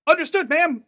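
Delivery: loud, high shouted reply; eager high-pitched military yell; soldier's acknowledgment. Acted. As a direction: bark it back like kids playing soldiers. Kids acknowledge order as soldiers.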